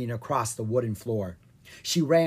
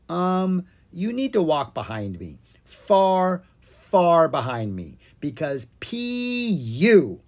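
put-on higher, bossy girl voice pushing him away; a sister shooing her smelly brother; Ella's voice; 4 semitones higher, 4 dB louder, slower than usual. Ella's voice in read story.

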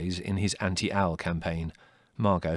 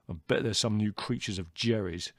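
mildly sour grumble; 3 semitones higher than usual. A narrator's reading. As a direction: complain with a touch of resentment. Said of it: "said Leslie sourly".

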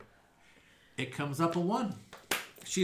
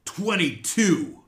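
disappointed groan; 12 dB louder, slower than usual. Acted. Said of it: "She's like".

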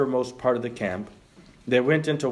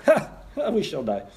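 leper voice; slower than usual. Retold or imitated. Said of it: "That's how they would talk".

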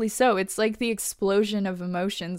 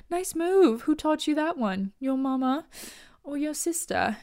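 higher mocking villain taunt; 6 semitones higher than usual. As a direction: sneer at the sisters. Villain Nixley taunting the heroines.

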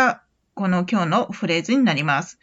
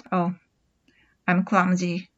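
softer, lower, rueful sigh; with feeling; 3 semitones lower, 3 dB quieter, much slower than usual. Shown as a demonstration. Teacher sighs about being clumsy, a touch dejected. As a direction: sigh it out in mild self-pity. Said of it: "ちょっと感情表現を込めて言うと".

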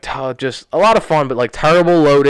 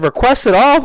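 much higher, disbelieving echo of his words; incredulous echo; 12 semitones higher, 4 dB louder, slower than usual. Retold or imitated. Arguing with the owner, an incredulous higher echo. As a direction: throw his phrase back at him in disbelief. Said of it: "I said".

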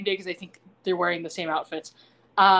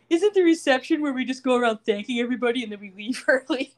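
mock whining; 2 semitones higher, 3 dB louder than usual. Recapper voices the groom whining about the reception, mock whining. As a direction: whine it in mock complaint. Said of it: "he's whining".

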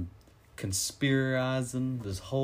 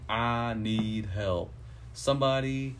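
slow, lightly done Alabama drawl; Southern drawl; slower than usual. Retold or imitated. Twin sister pleading to detective, mild Southern drawl. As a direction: drag the words out in a mild Southern accent. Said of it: "she's got the thick Southern drawl".

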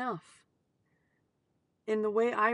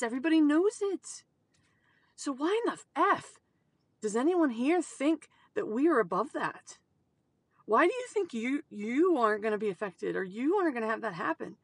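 heated rant; 3 semitones higher, 3 dB louder than usual. Real, not acted. Angry rant about complacency.

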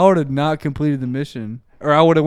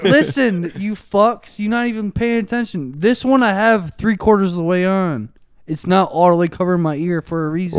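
higher, raised arguing voice; yelling; 4 semitones higher than usual. Real, not acted. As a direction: push it out aggressively. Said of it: "Why are you yelling?".

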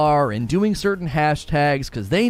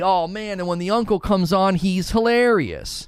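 lightly acted delighted fan; mock enthusiasm; 2 semitones higher than usual. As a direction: gush a little, like a pleased listener. Acts out a delighted podcast listener.

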